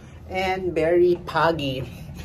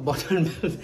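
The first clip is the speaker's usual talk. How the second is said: laughing at herself; 3 semitones lower than usual. Real, not acted. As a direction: repeat it through a laugh. Laughs at own slip.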